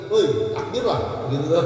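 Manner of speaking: mildly exasperated silent reproach, acted out; impatient inner voice. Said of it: "cuman hati begini".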